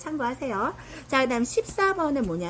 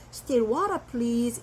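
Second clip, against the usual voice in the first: slow demo; much slower than usual. Shown as a demonstration. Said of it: "이렇게 해요".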